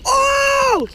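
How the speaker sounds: sudden high yelp of surprise; surprised shout. Real, not acted. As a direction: yelp out, caught off guard. Surprised shout on slippery slide.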